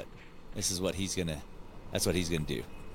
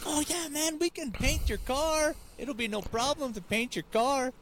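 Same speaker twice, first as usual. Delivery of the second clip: much higher, slow put-on Hispanic accent; mock Hispanic accent; slower than usual. Coworker imitating a Hispanic customer, slow and high. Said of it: "he's like".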